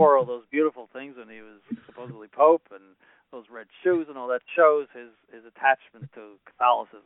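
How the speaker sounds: low, dry, ironic, sarcastically admiring tone. Talking on a show about the former pope, being openly sarcastic. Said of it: "I'm being sarcastic".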